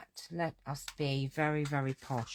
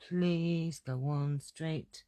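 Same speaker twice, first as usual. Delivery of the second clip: slow, stretched pleading on Please; slow hammed-up begging; drawn-out plea; much slower than usual. Real, not acted. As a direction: beg the stamp, dragging each word. Pleading with stamp block, drawn out.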